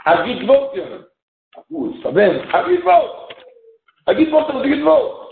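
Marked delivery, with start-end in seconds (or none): 2.5-5.3 excited exclaim. Acted. Excited calling out the word.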